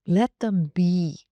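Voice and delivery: slow, lean on "be" in "Let them be"; stress on be. Shown as a demonstration. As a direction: let the final "be" land heavy and long. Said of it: "I emphasize the word be".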